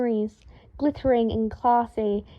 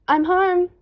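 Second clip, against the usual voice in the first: higher, louder call from another room; 8 semitones higher, 4 dB louder than usual. A narrator's reading. Harry calls out arriving home.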